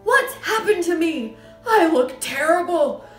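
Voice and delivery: high, loud, horrified outburst; yelling. A narrator's reading. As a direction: lament your own looks at a yell. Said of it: "yelled the father".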